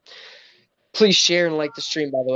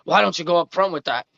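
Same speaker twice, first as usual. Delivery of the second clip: angry usher; 3 semitones higher than usual. Retold or imitated. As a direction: imitate an usher's veiled irritation. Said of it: "angry, like".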